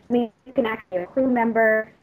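ordinary talk

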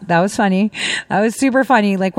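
ordinary talk, nothing marked

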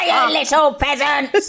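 lightly voiced witch sneer; a hint of a panto witch. Shown as a demonstration. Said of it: "I've learnt the laugh".

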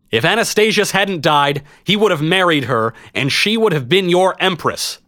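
high, projected public appeal; addressing a crowd. A narrator's reading. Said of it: "I turned to address the vast crowd".

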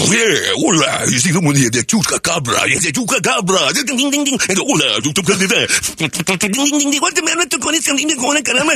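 manic Mexican morning show host impression; high sing-song Mexican TV patter with jingles. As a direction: parody a Spanish-language morning show. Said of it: "impression of a Mexican morning show".

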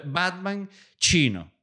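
slow, high announcement of the title; movie title voice. Shown as a demonstration. Comedian pitches the title to the audience, slow and high. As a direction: announce "Batman chino" like a trailer. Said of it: "Se llama así incluso".

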